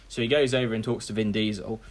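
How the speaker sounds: normal talking voice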